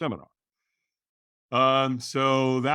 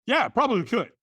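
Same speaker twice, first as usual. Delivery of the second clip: sheepish mock answer; 11 semitones higher, 4 dB louder than usual. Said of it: "quote of own answer".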